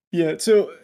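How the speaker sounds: talking out of breath, hurried; breathless, rushing to leave. Real, not acted. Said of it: "I'm a little out of breath".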